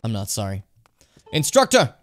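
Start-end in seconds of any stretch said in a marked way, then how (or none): 1.3-2.0 loud, high-pitched holler; calling out. Pretend. Player calling the instructor while disturbing their sleep, loud high call. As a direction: shout it up high.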